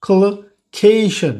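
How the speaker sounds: "collocation" slowly, with KAY stretched and aspirated; stressed aspirated syllable. Shown as a demonstration. Teacher showing the transcription's stressed syllable, "collocation" slow with aspirated KAY. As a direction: lean long on the KAY in "collocation", with a puff on K. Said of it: "সিলেবলটা হচ্ছে গিয়ে stress syllable".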